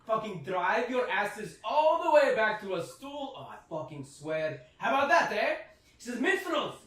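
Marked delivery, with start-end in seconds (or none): 0.0-5.5 high, loud dwarven woman hollering at her staff; angry yelling. Acted. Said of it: "upon her yelling". 6.2-6.8 raised, higher voice of a fed-up dwarven barkeep; yelling at minstrels. Acted. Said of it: "upon her yelling".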